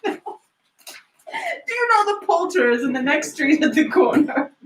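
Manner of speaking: eager call. Acted. Calling down to the boy.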